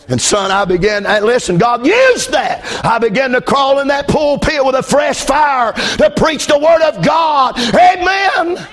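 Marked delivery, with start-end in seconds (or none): 1.6-8.7 swelling into a shouted sermon; preaching with rising fire. Acted. Pastor rousing the congregation, building preaching shout.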